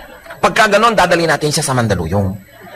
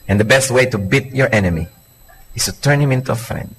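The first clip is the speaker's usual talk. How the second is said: soft sincere preaching; 5 semitones lower, 4 dB quieter than usual. Acted. Repeating key line.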